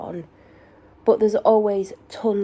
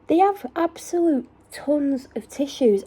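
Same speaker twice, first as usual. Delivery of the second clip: exasperated disbelief; 7 semitones higher, 5 dB louder than usual. Retold or imitated. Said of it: "And I'm like".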